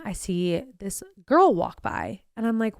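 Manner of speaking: ordinary talk, nothing marked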